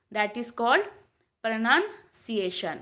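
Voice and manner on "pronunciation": slow. Shown as a demonstration. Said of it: "slow model word".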